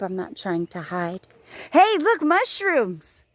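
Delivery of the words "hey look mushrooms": excited discovery. Real, not acted. Spotting mushrooms on the walk, excited. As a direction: point it out with a sudden thrill.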